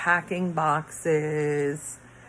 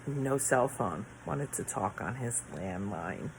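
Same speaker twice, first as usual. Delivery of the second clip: usual speaking voice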